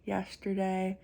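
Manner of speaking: talking with a swollen tongue. Real, not acted. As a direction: sore mouth after gum surgery. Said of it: "My tongue is swollen on this side".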